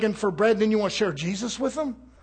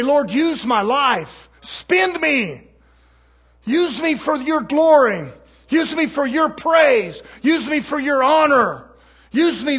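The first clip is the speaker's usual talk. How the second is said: fervent prayer; slower than usual. Retold or imitated. Voices his own prayer to God.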